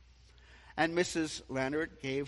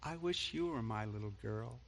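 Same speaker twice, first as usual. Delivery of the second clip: whisper; 5 semitones lower, 7 dB quieter than usual. Retold or imitated. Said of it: "Missus Leonard said in a whisper".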